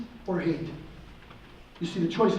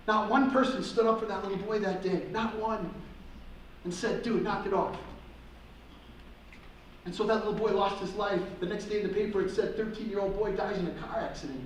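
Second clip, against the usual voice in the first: softer, grave closing lines; solemn; 6 dB quieter than usual. Acted. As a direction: let the tragedy sink in quietly. Solemn close of the story.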